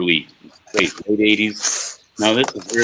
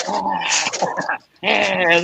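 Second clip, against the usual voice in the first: mock vampire cry, higher; vampire recoiling; 8 semitones higher than usual. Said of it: "like, like I'm a vampire".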